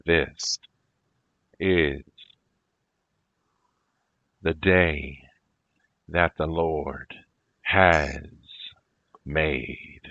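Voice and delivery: "This" "is" "the day" "that the Lord" "has" "made" spaced out, each said loud; split up word by word. Shown as a demonstration. Splitting the line up for the recording, each word loud and separate. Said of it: "I'm gonna split it up".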